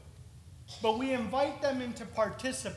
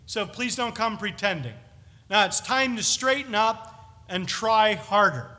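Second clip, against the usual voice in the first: hammering scolding; 4 dB louder than usual. Retold or imitated. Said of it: "is he coming to hammer them".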